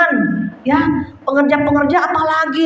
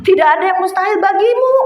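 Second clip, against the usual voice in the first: higher, quick retold proclamation; answering voice from prayer; 5 semitones higher, faster than usual. Voice answers the praying wife, imitated higher proclamation. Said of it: "ada yang jawab".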